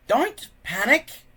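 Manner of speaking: put-on an old man steadying the room, slowly; old man calm. A narrator's reading. Old Wrinkly calms the panicking tribe in a slow old voice. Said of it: "said Old Wrinkly".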